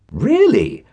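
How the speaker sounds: a brave attempt at calm; hiding amazement behind a calm question; forced calm. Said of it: "as calmly as I could".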